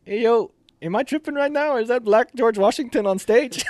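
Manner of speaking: high, loud, disbelieving question; incredulous buddy. Retold or imitated. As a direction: play the buddy who can't believe his eyes. Buddy quoted during ceremony.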